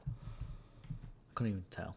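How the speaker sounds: slow, breathy whisper to himself; a slowed whisper aside to himself; whispered repeat. Real, not acted. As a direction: repeat it under your breath, slowly. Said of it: "see, I couldn't even tell".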